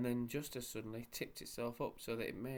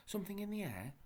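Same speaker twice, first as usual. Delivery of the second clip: saucepan man voice; 10 semitones higher than usual. A narrator's reading. Deaf saucepan man mishears.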